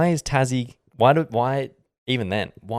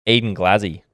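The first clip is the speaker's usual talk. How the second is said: put-on broad Aussie accent, EYE-den GLAZZ-ee; Australian accent saying Eden Glassy. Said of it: "but with Aussie accents now".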